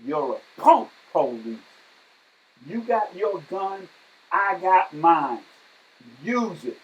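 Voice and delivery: slow, loud taunt on I got mine; retold screaming. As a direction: scream down the cop, daring him. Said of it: "started screaming".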